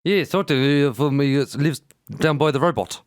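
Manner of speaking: put-on light South African accent; joking South African voice. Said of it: "South African accent".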